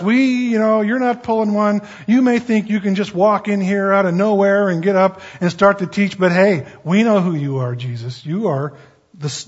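a cocky voice daring Jesus to react; taunting demons. Acted.

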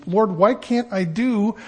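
mildly frustrated, pleading with God; frustrated plea. Acted. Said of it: "an expression of the frustration".

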